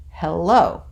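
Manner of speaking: "hello" with weight on the second syllable, hel-LO; iambic stress. Shown as a demonstration. Teacher gives an example of an iamb, iambic stress. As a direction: lean on the end of "hello". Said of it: "That's an iamb".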